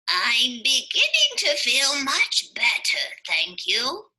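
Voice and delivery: put-on grateful old man voice; Amos voice. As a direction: thank them warmly. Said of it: "said Amos to his friends".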